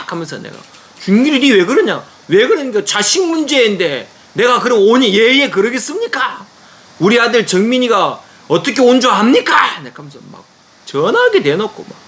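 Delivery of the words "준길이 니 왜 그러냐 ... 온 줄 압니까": a raised, indignant protest; a father defending his son, voice up; retold shouting. Father confronting the pastor by phone, raised indignant voice. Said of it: "고함을 쳤어요".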